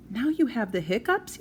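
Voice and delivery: high exasperated call; yelling. Acted. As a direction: shout it from the other room. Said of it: "yelled Mom".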